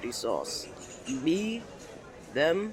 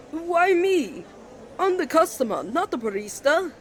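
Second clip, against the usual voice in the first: indignant protest; 9 semitones higher than usual. Acted. Sean protesting he's only the customer, indignant. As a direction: protest that it's not his job.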